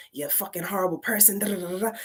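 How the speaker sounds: quick mock berating; voices in the head. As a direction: lightly imitate nagging voices running on. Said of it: "so many voices".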